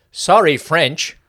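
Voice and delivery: "Sorry" stressed high and drawn out slowly; odd emphasis. Retold or imitated. Quoting Rizzo's milkshake line, "Sorry" stressed high. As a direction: lean hard on "Sorry", slow. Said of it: "a line I really wish they'd done a reshoot on".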